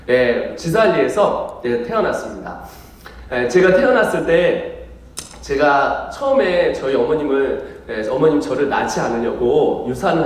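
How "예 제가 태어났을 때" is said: ordinary talk, nothing marked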